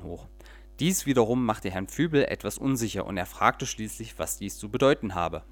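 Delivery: lively storyteller reading aloud; audiobook-style story narration. A narrator's reading. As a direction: read it like a bedtime tale with little voices. Reads a children's story aloud.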